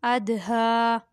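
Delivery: measured recitation with long-held final vowels; slow, level-pitched syllable-by-syllable recitation; Qaida spelling recitation. Shown as a demonstration. Teacher spelling out Qaida words for pupils, measured recitation.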